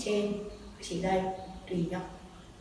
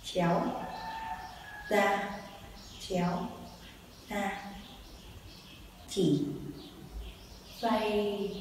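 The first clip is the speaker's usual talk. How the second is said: calling dance moves; 5 dB quieter, slower than usual. Shown as a demonstration. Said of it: "Thử lại nhé".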